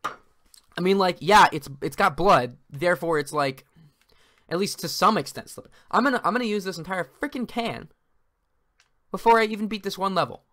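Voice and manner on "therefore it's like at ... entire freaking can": ordinary delivery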